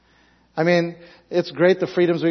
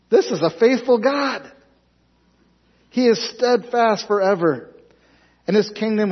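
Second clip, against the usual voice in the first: Darius proclaiming; 7 semitones higher than usual. Acted. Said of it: "You know what Darius is saying".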